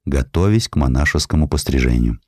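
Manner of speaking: plain reading voice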